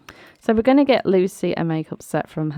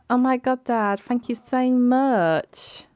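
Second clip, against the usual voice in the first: grateful daughter; 4 semitones higher than usual. Pretend. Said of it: "she's like".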